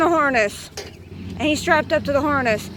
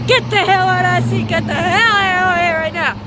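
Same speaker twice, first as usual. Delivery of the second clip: loud furious command; angry yell; 4 semitones higher, 5 dB louder than usual. Retold or imitated. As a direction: yell at the kid to get out. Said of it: "I yelled at boy so bad".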